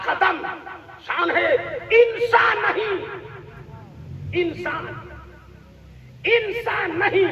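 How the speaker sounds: slow, ringing recitation with long pauses; declaimed verse. Real, not acted. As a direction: recite the couplet to the crowd, stretching each phrase. (ठहर-ठहर कर जोश से शेर पढ़ना)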